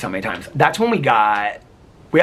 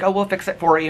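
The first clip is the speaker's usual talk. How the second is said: higher-pitched imitation of a sweet flight attendant; sweet, reassuring; 8 semitones higher than usual. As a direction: gently offer help in a lifted voice. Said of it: "she's really sweet".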